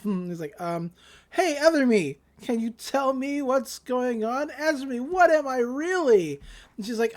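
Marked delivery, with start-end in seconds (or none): 1.3-6.4 higher, mock-dramatic appeal; mock self-address. He questions his other self, mock-dramatic. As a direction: imitate him calling on his inner self.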